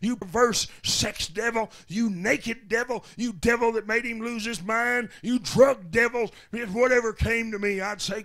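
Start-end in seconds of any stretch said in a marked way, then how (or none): 0.0-6.3 loud preacher's rebuke, peaking on come out; full-voiced deliverance shout, rising to the end; shouted exorcism. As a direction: bellow the command at the devil. Rebuking devils during deliverance.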